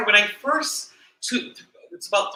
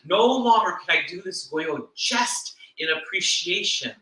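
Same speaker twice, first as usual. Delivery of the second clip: "No longer" stretched and stressed, "just" punched; weight on "No longer" and "just", deliberately spaced; emphatic key point. Real, not acted. Minister telling the congregation to pay attention, emphatic. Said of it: "pay attention to what I'm saying now".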